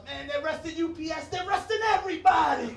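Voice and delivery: high shout building in volume; mock excited shouting. Kid in holding cell spreading arrest news, mock excited shout. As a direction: build to an astonished, high-pitched holler.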